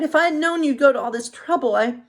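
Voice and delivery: light, kind princess; Snow White. Acted.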